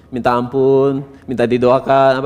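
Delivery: level, drawn-out token begging; unmoving, mechanical plea; half-hearted plea. Shown as a demonstration. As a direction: beg without real feeling, stretching the words. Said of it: "apa saya tergerak?".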